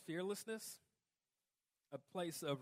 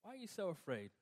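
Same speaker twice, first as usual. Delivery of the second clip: gentle reply; 3 dB quieter than usual. Pretend. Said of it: "Or, you know".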